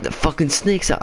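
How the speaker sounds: high-pitched panicky re-enactment; retold startled yell. Retelling the alarm over the escaped snake, mock yell. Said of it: "I fucking yelled".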